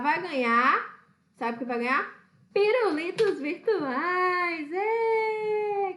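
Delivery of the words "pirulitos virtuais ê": hammed-up joyful cry; mock excited prize announcement. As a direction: announce the lollipops like a grand prize. (anúncio empolgado e exagerado)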